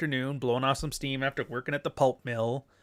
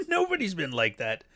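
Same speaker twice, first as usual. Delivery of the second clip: laughing; 4 semitones higher than usual. Real, not acted. Repite la frase riendo.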